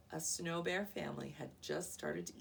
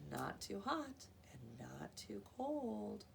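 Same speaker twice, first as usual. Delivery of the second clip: contented; 3 semitones higher, 4 dB quieter, slower than usual. Acted. Aluki savors the soup.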